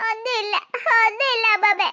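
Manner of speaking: weepy, put-on crying voice; tearful. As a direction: insist through acted tears, faint at first. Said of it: "എന്തിനാ ഇങ്ങനെ കരയുന്നേ കുഞ്ഞേ".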